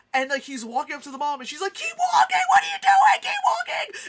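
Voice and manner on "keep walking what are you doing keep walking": frantic, panicked yell, very high and very loud. Retelling a film scene, the speaker acts out the mother's line: imitating a panicked shout. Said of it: "And it's like this panic thing".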